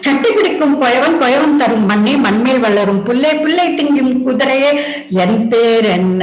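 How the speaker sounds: rapid singsong storytelling rhyme; chain-rhyme recitation. Acted. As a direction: reel off the rhyme link by link.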